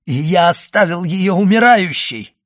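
high, loud outcry; anguished exclamation. A narrator's reading. Young officer realising he left his beloved dying, anguished outcry. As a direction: cry out, rising in pitch and force. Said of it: "воскликнул Моррель".

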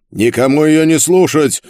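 high, forceful shout; shouted order. A narrator's reading. Karl warns all the prisoners not to listen, shouting. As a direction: shout it urgently down the corridor. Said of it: "крикнул Карл".

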